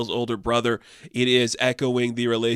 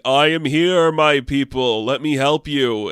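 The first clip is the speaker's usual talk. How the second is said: louder, lofty Osiris announcing himself; grand god voice; 3 semitones higher, 5 dB louder, slower than usual. Retold or imitated. Osiris greeting his people in a booming voice.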